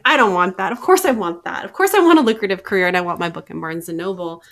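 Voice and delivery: loud, fast, insistent protest; half-laughing mock insistence; emphatic outburst. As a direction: blurt it out like a confession you can't hold in. Self-quote, insisting she wants success.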